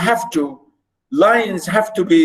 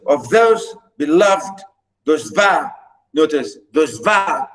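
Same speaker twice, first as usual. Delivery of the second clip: of those beloved those va, stressing THOSE, LOVED, VA; iambic scansion. Shown as a demonstration. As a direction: those va in paired beats, landing on VA. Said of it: "stress on va".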